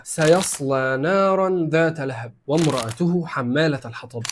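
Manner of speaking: slow, measured tajweed chant of the verse; Quran recitation. Acted. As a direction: recite it slowly, letting each word ring. (تلاوة قرآنية بطيئة مجوّدة)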